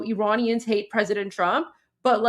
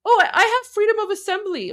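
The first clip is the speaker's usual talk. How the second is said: mocking whiny voice; 10 semitones higher, 4 dB louder, faster than usual. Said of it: "this man is like".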